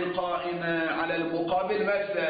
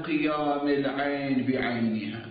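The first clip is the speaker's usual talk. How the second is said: slow, measured scholarly dictation on a level tone; formal lecture dictation; 2 semitones lower, slower than usual. Real, not acted. Seminary teacher dictating the legal argument to students, formal dictation. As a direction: dictate the text, stretching the long vowels.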